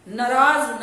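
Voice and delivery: नाराज with a clipped short first 'a', as 'naraaj'; mispronounced short first vowel. Shown as a demonstration. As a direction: say नाराज wrongly as nə-RAAJ. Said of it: "ये गलत word है".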